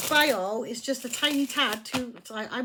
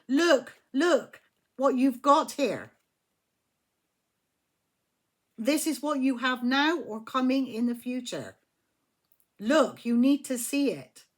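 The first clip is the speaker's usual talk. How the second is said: louder, slow insistent urging; urgent spirit team; 2 semitones higher, 4 dB louder than usual. Pretend. Spirit team urging the querent, louder and insistent. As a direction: plead with them to look.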